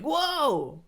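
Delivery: high, drawn-out whoa of awe; exaggerated impressed exclamation; mock amazed whoa. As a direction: imitate wowed kids with a high-pitched whoa. Imitating students' amazed reaction.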